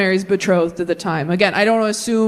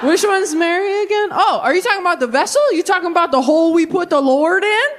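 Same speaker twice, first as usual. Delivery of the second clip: mocking dismissive men; 7 semitones higher than usual. Mocking men's voice, raised pitch.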